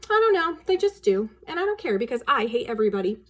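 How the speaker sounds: put-on sulky girl. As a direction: shrug it off like a spoiled child. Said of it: "Wendy said".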